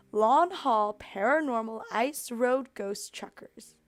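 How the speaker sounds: the title spelled out slowly; slow, deliberate. Real, not acted. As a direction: say each word slowly, in disbelief. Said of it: "I'm sorry, what?".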